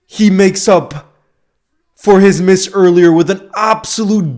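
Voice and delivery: loud, emphatic play-by-play; impassioned football commentary. Real, not acted. Streamer commentating Liverpool's goal to viewers, loud and emphatic. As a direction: proclaim the goal like a match commentator.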